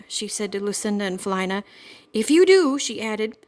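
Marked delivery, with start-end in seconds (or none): 2.1-2.8 high, loud furious threat; angry warning. A narrator's reading. Mother warning the girls, loud and furious. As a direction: snap the warning at the kids. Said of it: "She was so angry she could hardly speak".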